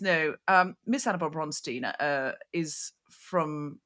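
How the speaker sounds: lightly mocked British butler accent; ridiculous British accent. Waiter from Surrey correcting Samantha, mock British accent. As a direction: put on a slightly absurd British accent. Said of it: "he's got this ridiculous accent".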